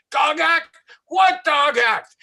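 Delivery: high, loud, slow panicked cry; horrified confusion. Retold or imitated. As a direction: squeal it in confused horror. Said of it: "his face breaks into this horror and confusion".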